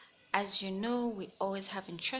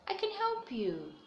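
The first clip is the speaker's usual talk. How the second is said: put-on lively storybook read-aloud for young listeners; reading to children. A narrator's reading. Teacher reading a picture book to the class, animated storytelling. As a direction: tell it brightly, like story time.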